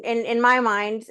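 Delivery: ordinary talk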